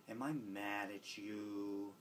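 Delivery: put-on slow, soft, gentle question to a child. Aunt gently asking a nephew after timeout, slow and soft. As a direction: ask it slowly and kindly, like a caring aunt. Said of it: "I have a little speech I give".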